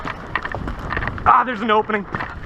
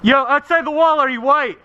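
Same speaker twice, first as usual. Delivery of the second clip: calling out; 5 semitones higher than usual. Real, not acted. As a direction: shout it to players outside. Calling out to other players.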